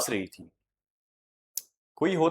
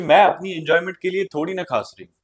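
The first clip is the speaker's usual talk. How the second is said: quick, louder, higher-pitched irritated reply; angry retort; 6 semitones higher, 7 dB louder, faster than usual. Acted. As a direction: snap back in annoyance, fast and loud. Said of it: "गुस्से से जवाब दिया". (गुस्से से तेज़ जवाब)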